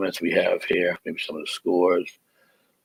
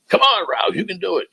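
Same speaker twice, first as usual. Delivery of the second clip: self cheer; 14 semitones higher than usual. Real, not acted. Cheering himself on while sending.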